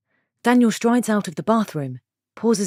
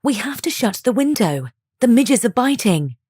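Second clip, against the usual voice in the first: crisp enunciation; 5 semitones higher, 4 dB louder than usual. Acted. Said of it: "She enunciates her words".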